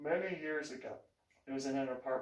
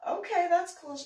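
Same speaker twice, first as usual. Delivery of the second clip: high, loud polite "okay, that's cool"; humoring; 7 dB louder than usual. Retold or imitated. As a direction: humor her with forced cheer. Humoring the gushing neighbor.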